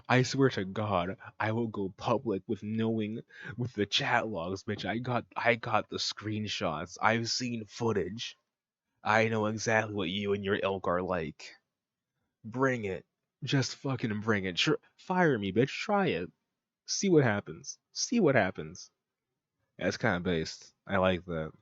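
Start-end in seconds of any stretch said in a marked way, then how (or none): 0.1-14.6 slow, deliberate threat; acted threat. Contributor threatening bosses with chat logs, slow and menacing. 14.6-18.9 higher-pitched, acted taunt; defiant challenge. Contributor daring the bosses to fire him, defiant.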